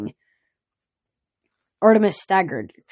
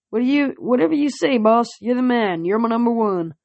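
cheeky horse voice; 5 semitones higher than usual. Acted. Cheeky pegasus flatters.

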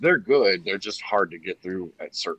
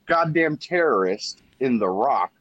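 higher-pitched, hammed-up disbelief; mock-incredulous casting quote; 7 semitones higher than usual. Riffing on the star's role in The Rock, mock-incredulous. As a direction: pile on the absurd role, pitched up. Acting out Connery's absurd casting.

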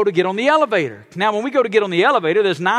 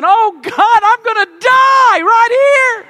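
high, loud, slow panicked cry; panicked shout; 9 dB louder, much slower than usual. Retold or imitated. Pastor reliving the moment he thought he'd die, panicked shout. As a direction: cry out like you're sure you'll die. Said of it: "I'm panicking".

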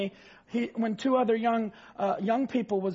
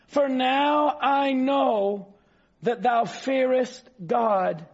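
slower solemn scripture reading; slower than usual. Acted. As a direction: let the verse settle into a hush. Rereads angel's words, slower, fading.

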